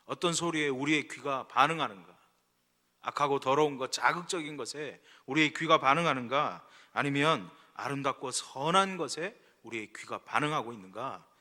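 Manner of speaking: loud, driving sermon questions; preaching. Real, not acted. Preacher asking what sounds our ears respond to, forceful preaching. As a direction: drive each question at the congregation.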